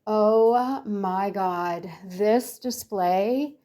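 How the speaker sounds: slow, marveling gush; gushing to the greeter about the display; dazzled awe. Retold or imitated. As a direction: stretch it out, starstruck. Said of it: "And I was like".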